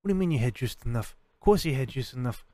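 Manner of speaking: loud, high tough-guy voice; mobster-style taco guy. Retold or imitated. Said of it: "He's like".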